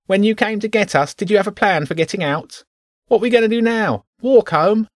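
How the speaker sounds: high, squeaky complaining rat; grumbling rat squeaks its complaint. Acted. Rat character voice.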